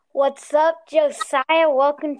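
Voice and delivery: loud cheerful welcome; loud greeting. Acted. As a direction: greet the guest loudly. Greeting the podcast guest.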